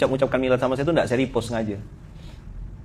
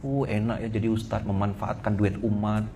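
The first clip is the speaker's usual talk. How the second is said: softer, snide muttered jab; a suspicious follower mocking the preacher, softer; sneering follower; 6 semitones lower, 9 dB quieter than usual. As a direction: sneer it under your breath like a resentful follower. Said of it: "muncul prasangkanya".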